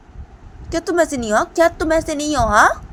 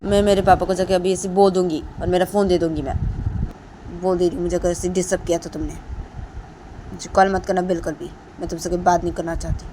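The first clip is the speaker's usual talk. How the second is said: put-on higher, louder angry girl; angry scolding; 4 semitones higher, 8 dB louder than usual. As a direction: tell him off and hang up. Deepanta angry again.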